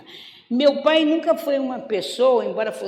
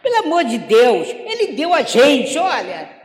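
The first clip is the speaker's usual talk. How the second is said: exasperated plea; 3 semitones higher, 5 dB louder than usual. Retold or imitated. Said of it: "Aí eu falava".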